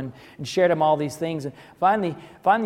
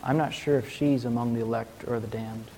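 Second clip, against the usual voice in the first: quiet, lower musing; reflective; 3 semitones lower, 6 dB quieter than usual. Retold or imitated. The father admits doubt about his daughter, quiet and musing. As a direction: mull it over half to yourself. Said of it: "in a reflective moment".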